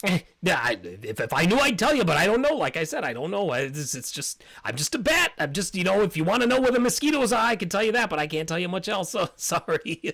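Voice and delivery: high squeaky bat, helpless and eager; squeaky apologetic bat. Acted. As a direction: pitch way up, shrug it off. GM voices bat excusing himself.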